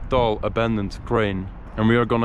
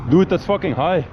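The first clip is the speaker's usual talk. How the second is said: awed; 5 semitones higher, 7 dB louder than usual. Real, not acted. Staring up at the tall crane.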